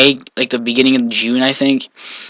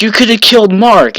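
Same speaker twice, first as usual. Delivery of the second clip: high-pitched, aghast little brother; shocked disbelief; 8 semitones higher than usual. Retold or imitated. Younger brother hears about the trailer accident, shocked. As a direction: imitate a stunned kid, pitched way up.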